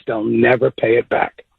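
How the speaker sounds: normal talking voice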